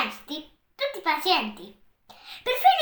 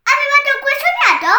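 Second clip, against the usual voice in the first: surprised wonder; 10 semitones higher, 3 dB louder, faster than usual. A narrator's reading. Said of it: "con sorpresa".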